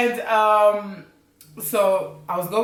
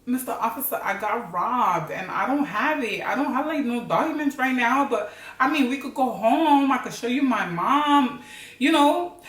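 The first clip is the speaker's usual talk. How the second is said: higher, lilting put-on Latina accent; 5 semitones higher than usual. Telling an officer she got robbed, Latina accent. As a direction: plead lightly in a Latina accent. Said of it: "but that's too Latina".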